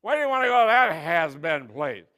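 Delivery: scoffing loud grouch; grouchy hairdresser. Retold or imitated. Hairdresser mocking her trip, loud scoffing. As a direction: sneer at the whole idea. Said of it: "he said".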